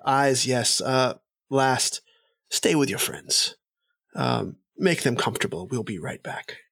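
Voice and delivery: brisk courtly instructions to his companion; elf lord. Acted. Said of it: "and he says".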